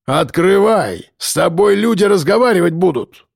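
menacing shout. A narrator's reading. Grach yells at the door.

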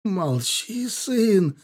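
high, begging cry; pleading. Acted. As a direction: beg him to stop talking. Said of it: "взмолился Ихаб".

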